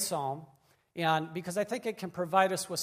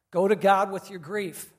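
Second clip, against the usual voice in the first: louder, stressing each word of "Go to God with your grief"; louder emphatic repeat; 3 semitones higher, 8 dB louder than usual. Shown as a demonstration. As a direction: drive the message home. Repeating the key message louder.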